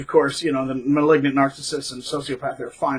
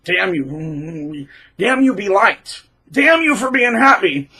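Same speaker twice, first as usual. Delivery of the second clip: mock resentful narcissist; 3 semitones higher, slower than usual.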